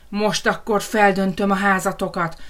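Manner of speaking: half-shouted threat; furious roar. Acted. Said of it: "ordította magából kikelve". (dühös, hangos ordítás)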